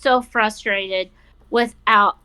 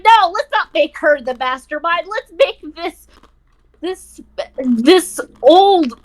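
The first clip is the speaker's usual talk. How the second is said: mocking voice; 5 semitones higher than usual. Mocking the game writers' choice.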